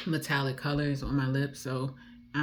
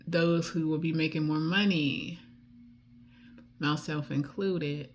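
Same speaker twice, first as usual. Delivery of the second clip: DC accent; 2 semitones higher than usual. Real, not acted. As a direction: let the DC accent come through. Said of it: "And that accent just came out".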